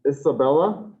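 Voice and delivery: "Isabella" as iss-a-BELL-a; first pronunciation option. Shown as a demonstration. Teacher trying a name in roll call, "Isabella" as iss-a-BELL-a. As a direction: say "Isabella" with short I and hissed S. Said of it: "or Isabella or Isabella?".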